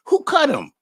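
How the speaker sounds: put-on high, loud incredulous old lady; mock Meemaw. Retelling mother-in-law's startled question, high and loud. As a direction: squeak it out like a shocked grandma. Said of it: "Like that".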